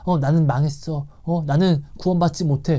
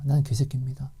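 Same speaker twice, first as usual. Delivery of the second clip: whispered confession; 3 semitones lower, 6 dB quieter than usual. Retold or imitated. Retold self-condemning prayer.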